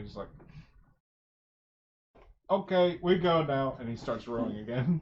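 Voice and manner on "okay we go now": high, loud, blunt goblin voice; gruff boatman. Acted. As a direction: snap back to broken speech. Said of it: "snaps back out of it".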